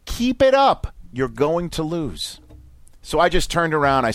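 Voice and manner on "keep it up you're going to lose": imitated threat. Angry husband warning a dad, menacing. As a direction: taunt him, then slow down for the warning. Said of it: "It's what he says".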